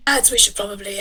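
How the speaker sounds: hushed suggestion to the lads; whispering creature; whispered. Acted. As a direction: whisper it to your mates. Critter pokes head up.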